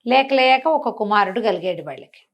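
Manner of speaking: usual speaking voice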